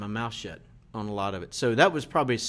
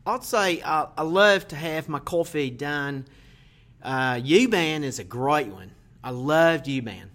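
a light, half-hearted attempt at an Australian accent; slower than usual. Guest asked by the host for an Australian accent, mild and slow. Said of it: "So using an Australian accent".

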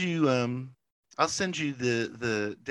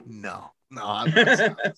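wrestler retort; 5 dB louder than usual. Retold or imitated. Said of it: "He's like".

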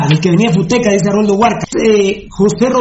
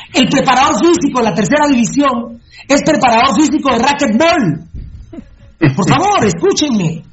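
raised, heated rant; 4 semitones higher than usual. Real, not acted. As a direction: rant it to the crowd, fired up. Ranting about trainers.

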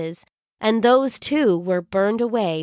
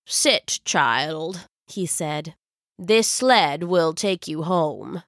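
put-on kind old wizard; 4 semitones lower, slower than usual. Wizard gently offers sled.

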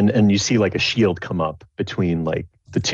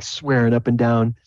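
ordinary talk

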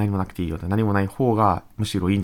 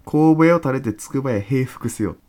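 reciting a line; 3 semitones higher, 5 dB louder, slower than usual. Retold or imitated. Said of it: "これやん".

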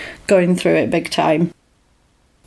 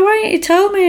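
high-pitched, lightly acted questioning; mum's puzzled question; 12 semitones higher, faster than usual. Mum asks son about hidden award, retold puzzlement. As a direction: imitate a mum asking in surprise.

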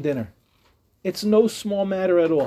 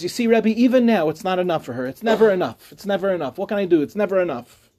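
infuriated husband. Retold or imitated. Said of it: "more and more infuriated".

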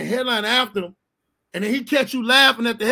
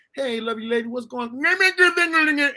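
drawn-out, slow smooth hello to a lady; smooth greeting; 5 semitones higher, slower than usual. Retold or imitated. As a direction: stretch the greeting out like a smooth talker. Man with hearing aid greeting.

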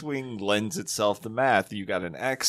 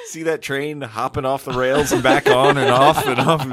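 laughing; 2 semitones higher, 6 dB louder than usual. Real, not acted. Wild train clip makes them laugh.

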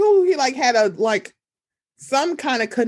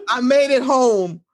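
slow, laughing war-homecoming declaration; hammed-up hero's return; mock returning soldier; 3 dB louder, slower than usual. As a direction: play a soldier home at last, amused. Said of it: "Like he came home from the war".

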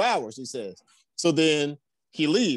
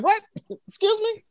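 high, incredulous excuse me; mock surprise; mock indignant what; 4 dB louder than usual. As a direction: act shocked at the question. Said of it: "He said".

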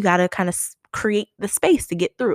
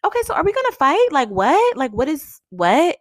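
high, quick challenge, slightly raised; half-yell it in disbelief, as retold; mock yell over party music; retold mild yelling; 8 semitones higher, 4 dB louder than usual. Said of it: "kinda yelling a little bit".

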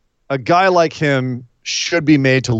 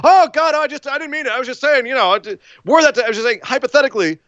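much higher, hammed-up frightened pleading; panicked backpedal; 10 semitones higher, faster than usual. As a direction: squeak out a cowardly excuse, caught off guard. Heel backpedals as Finn appears.

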